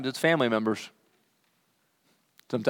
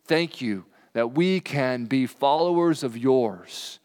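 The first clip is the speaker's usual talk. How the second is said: closing prayer. Acted. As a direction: pray over them gently. Closing prayer over congregation.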